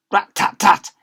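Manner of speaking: loud, high pleading from inside the cupboard; trapped boy crying out through the door. Acted. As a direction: bang and beg to be let out. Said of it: "cried the boy".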